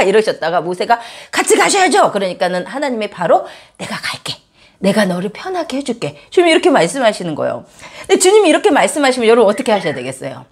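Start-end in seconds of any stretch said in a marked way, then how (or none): 1.3-2.1 pleading. Retold or imitated. Moses pleading with God. 3.8-6.2 a hushed, almost whispered yes; softly giving in. Retold or imitated. God quietly yielding to Moses, hushed and soft.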